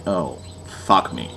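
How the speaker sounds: low, slow groan of dismay; quiet, slow mock despair. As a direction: sink into dread, slowly. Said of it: "and you're like".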